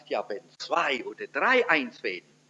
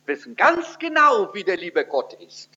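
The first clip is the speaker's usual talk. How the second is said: mock certainty; 3 semitones higher than usual. Ironic claim repeated.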